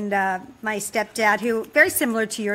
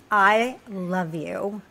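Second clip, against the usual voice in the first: slow tender words; 2 semitones lower, much slower than usual. Retold or imitated. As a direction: draw it out slowly, tenderly. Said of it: "and she just went".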